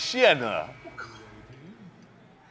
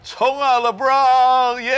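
battle roar; 10 semitones higher, 7 dB louder, much slower than usual. Real, not acted. Cheering his player in game.

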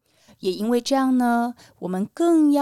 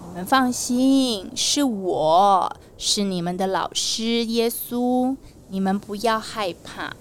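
comforting; slower than usual. Acted. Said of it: "赶快过来安慰他们".

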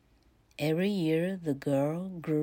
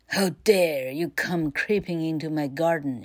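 loud snarl of a witch; 5 dB louder than usual. Acted. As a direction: snarl it at the intruder. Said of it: "she snarled".

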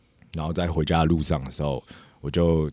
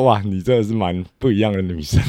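louder mock-amazed cry; amused exclamation; 3 semitones higher, 5 dB louder than usual. Speaker telling girlfriend she is one of a kind, amused exclamation. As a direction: exclaim at how different she is.

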